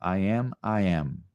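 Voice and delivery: stepping down in tone on each repeat; varying tone. Shown as a demonstration. Teacher shows changing tone on repeats, gently descending. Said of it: "Allow yourself to go up or down in tone".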